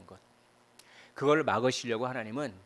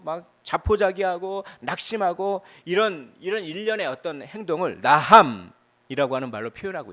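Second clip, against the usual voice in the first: fervent preaching; 6 semitones higher, 6 dB louder than usual. Acted. Pastor describing despair to the congregation, fervent higher preaching. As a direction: preach it with rising passion.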